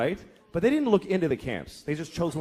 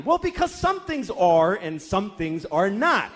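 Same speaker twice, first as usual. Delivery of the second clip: strained explanation; 3 semitones higher, slower than usual. Acted. Father pushed into abstract answers.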